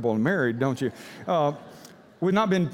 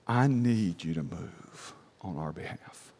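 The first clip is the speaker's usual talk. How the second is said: much lower, slow, hushed plea; fervent quiet prayer; 10 semitones lower, 6 dB quieter, slower than usual. Retold or imitated. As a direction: pray it low and intimate. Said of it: "here's how I prayed".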